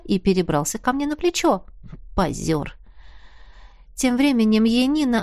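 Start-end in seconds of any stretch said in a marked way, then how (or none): none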